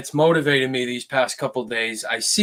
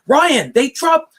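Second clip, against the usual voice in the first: imitating a fan; 11 semitones higher, 4 dB louder than usual. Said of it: "so many comments from these people".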